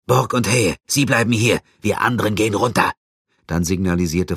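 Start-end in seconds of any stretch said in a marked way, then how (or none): 0.1-2.9 high, loud quick commands; commanding orders. Acted. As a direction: bark the orders out fast. Officer gives orders. (befehlend, laut und schnell)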